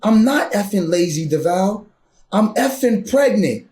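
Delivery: husband imitating his wife's furious reply about being pregnant, imitated anger; wife's angry comeback. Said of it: "She goes".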